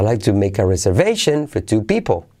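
"reservation" and "people" carrying the peaks; accented keywords. Shown as a demonstration. Teacher showing chosen accents, stressed reservation and people. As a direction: lift "reservation" and "people", finish falling. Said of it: "acentuaría reservation en people".

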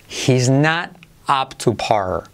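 "He's not up to par." very slow, each word clear; slow model sentence. Shown as a demonstration. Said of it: "Frase que te hacemos de práctica". ("He's not up to par." muy lento, acento en "not")

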